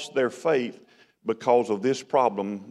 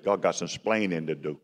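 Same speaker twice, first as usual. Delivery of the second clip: lightly imitated Cuban accent; understated Cuban-accented quote; Desi Arnaz; 5 semitones lower, 3 dB quieter than usual. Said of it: "That's the way he said it".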